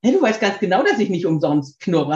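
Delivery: lightly voiced miffed dog, punchy start; indignant dog talking back. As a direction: answer back as the offended dog. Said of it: "guckt er mich an und sagt".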